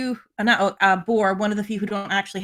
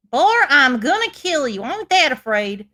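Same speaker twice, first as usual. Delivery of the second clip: mock threat; 3 semitones higher, 5 dB louder than usual. Magpie voiced, mock-threatening Boar.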